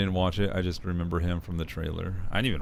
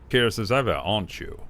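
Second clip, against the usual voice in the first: louder, brighter take of the same line; character voice; 2 semitones higher, 3 dB louder than usual. Acted. Retrying the line while looking at his face. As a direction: lift the start, then drop. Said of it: "let's look at his face".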